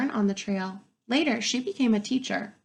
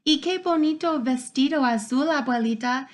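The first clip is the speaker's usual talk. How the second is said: happy thanks; 5 semitones higher than usual. Acted. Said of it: "I tell her".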